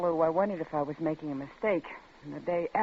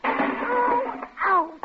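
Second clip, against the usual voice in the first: sharp high cry of pain; pained yelp. Acted. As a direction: yelp as if she banged into something. Woman hurts herself in garage.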